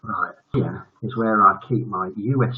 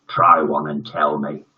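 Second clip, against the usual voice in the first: sly villain; 8 semitones lower than usual. Acted. Villain teacher dares.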